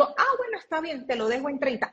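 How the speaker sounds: lightly voiced pushover agreeing to a discount; meek giving in. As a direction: play her meek younger self caving on price. Her past self giving in.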